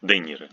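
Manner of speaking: De Niro as "deh-niro", d unsoftened; hard D. Shown as a demonstration. Teacher repeating the corrected name, hard d in De Niro. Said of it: "The is not softened".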